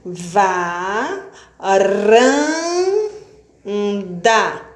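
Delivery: "Pé, te, ca" sílabas destacadas, com pausas; silabando. Shown as a demonstration. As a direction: bata cada sílaba de peteca. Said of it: "Eu abri a boca três vezes". (separando sílabas para a turma)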